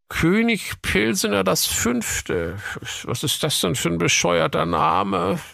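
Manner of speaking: high, officious cop voice; police commissioner voice. Acted. (hohe, wichtigtuerische Kommissarstimme)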